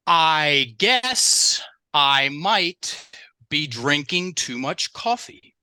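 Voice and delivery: slow, hedging "I guess I might"; drawn-out tentative hedge; soft talk. Shown as a demonstration. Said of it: "I'm gonna deliver some soft talk sentences".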